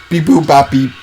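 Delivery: playful robot beeps. Pretend. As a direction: beep it like a toy robot. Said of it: "they've got robot voices".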